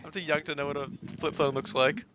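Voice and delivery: high, laughing protest; playful protest. Real, not acted. Laughing protest about age.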